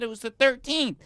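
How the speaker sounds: loud, high acted protest; frantic insistence. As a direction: hammer it home in a panicked pitch. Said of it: "This lady is freaking out".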